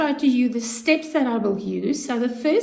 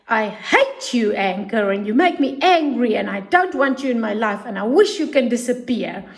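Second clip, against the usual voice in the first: put-on forceful child anger. Shown as a demonstration. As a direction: push the feeling out with force, not a real yell. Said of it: "say it with force in your voice".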